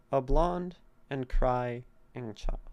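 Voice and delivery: slow, stressed "A blonde and crying"; scansion reading. Shown as a demonstration. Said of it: "Crying. Da-dum".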